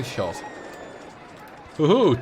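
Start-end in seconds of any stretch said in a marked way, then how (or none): 1.8-2.2 loud cheerful woohoo; happy loud whoop; excited whoop. Real, not acted. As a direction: cheer as the track works. Two loopings built, celebrating.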